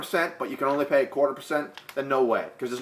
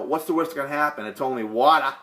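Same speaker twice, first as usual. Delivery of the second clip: lightly put-on Boston accent. Friend egging him on at the pool, mock Boston accent. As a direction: quote the friend with a Boston twang. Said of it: "if you got that accent".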